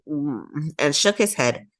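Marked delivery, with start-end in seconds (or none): 0.1-0.7 a mild low unhappy groan; child's short reluctant groan. A narrator's reading. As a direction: groan softly in disapproval. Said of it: "Buddy groaned".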